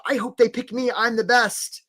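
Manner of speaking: a hint of over-eager hopeful; mock hopeful job seeker. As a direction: lightly play someone hoping to be picked. Acting out job seeker's mindset.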